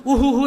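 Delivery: comic "oohoo-oohoo" wail; mock sobbing. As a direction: imitate someone suddenly bawling alone in the dark. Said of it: "இருட்டுல போயிட்டு திடீரென்று தனியா".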